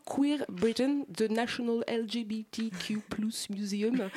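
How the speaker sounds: slow, hushed mock English accent on the museum's name. Host names the London museum in a mock English accent. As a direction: put on a grand English accent, slowly and breathily. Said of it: "avec un accent fantastique".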